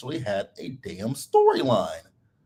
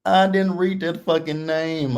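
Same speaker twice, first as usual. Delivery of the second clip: exclaiming; 8 semitones higher, 4 dB louder than usual. Real, not acted. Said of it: "I'm hollering".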